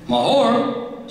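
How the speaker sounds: high-pitched incredulous query, no real volume; mock shout. A narrator's reading. Queen throws the woman's name back at her, affronted shout. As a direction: exclaim it sharply upward, like an affronted queen. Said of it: "shouted the queen".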